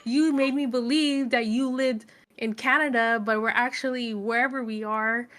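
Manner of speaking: mock indignant protest; indignant heroine. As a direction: complain like a kidnapped girl. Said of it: "And she's like".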